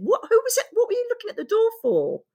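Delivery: high, incredulous retold question; baffled questioning. Doctor asking the patient about the door, baffled. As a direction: act out a puzzled doctor's high-pitched query.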